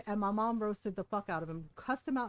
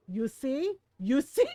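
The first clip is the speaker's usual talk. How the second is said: gloating; 2 semitones higher, 5 dB louder, slower than usual. Retold or imitated. Mom gloating at the uncle.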